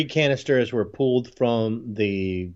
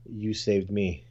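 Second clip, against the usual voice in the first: softer, tender acted line; sappy movie line; 4 semitones lower, 7 dB quieter than usual. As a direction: say it softly, like a sappy film moment.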